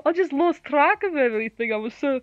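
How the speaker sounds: high, agitated recounting; acted rising panic; distressed confession. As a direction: pour it out in alarm. Character recounts losing control.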